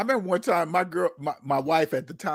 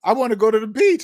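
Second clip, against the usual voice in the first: annoyed complaint; 5 semitones higher, 3 dB louder, faster than usual. Retold or imitated. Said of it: "I said".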